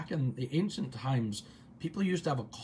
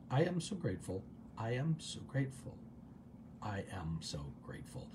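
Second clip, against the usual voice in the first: soft, sinking lower and quieter; hushed meditative affirmation; gratitude mantra; 4 semitones lower, 9 dB quieter than usual. Shown as a demonstration. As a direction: say it gently, fading with each repetition.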